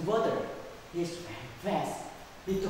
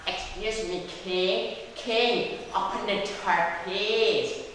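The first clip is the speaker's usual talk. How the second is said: lightly raised frog voice; frog calling out; 3 semitones higher, slower than usual. Acted. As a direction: call through a closed door to the king. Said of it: "shouted frog".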